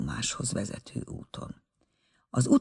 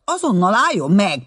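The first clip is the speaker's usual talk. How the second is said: loud, higher order to stop; commanding; 7 semitones higher, 6 dB louder than usual. A narrator's reading. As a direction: bark the order after her. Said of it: "parancsolta a fiú".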